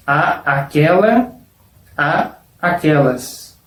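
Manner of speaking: slow, the A of "A aquela" said twice, apart; two separate As. Shown as a demonstration. Teacher showing how to pronounce both As, spoken separately. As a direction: pause between "A" and "aquelas". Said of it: "hay que pronunciar la letra A dos veces".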